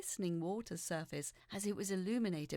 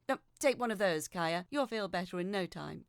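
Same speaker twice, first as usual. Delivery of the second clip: loud mother; 7 dB louder than usual. Acted. Mother hands over seasickness pills.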